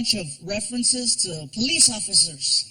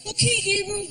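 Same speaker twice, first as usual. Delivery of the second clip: put-on higher, childlike reply; kid voice; 9 semitones higher than usual. Son answering his dad in a kid voice. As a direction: answer like a small boy.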